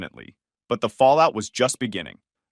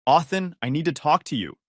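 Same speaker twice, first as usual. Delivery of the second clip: slurred speech; 3 semitones higher than usual. Acted. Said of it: "she slurred".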